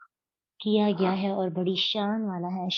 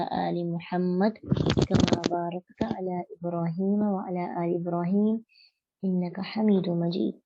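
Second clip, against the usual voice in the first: prayer recitation. Acted. (दुआ की तरह पढ़ा गया दुरूद)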